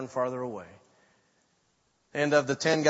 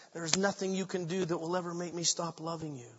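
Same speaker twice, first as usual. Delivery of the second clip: Jesus to those beating him, soft and tender; tender vow; 6 dB quieter than usual. Retold or imitated. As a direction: promise it softly, from love. Jesus forgiving his torturers.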